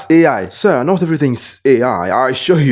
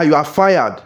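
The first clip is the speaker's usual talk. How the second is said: firm firing; 2 semitones higher, slower than usual. Acted. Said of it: "Leave my car".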